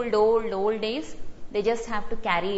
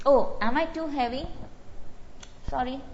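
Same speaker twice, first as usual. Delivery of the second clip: lightly acted apologetic concern, raised pitch; mild sympathy; 4 semitones higher than usual. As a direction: act out a touch of sympathy for someone. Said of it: "that's sympathy".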